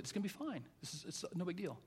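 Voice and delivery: soft, easy dad reassurance; reassuring. Retold or imitated. Dad talking to kids at flu shot, reassuring. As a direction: gently play it down, softly.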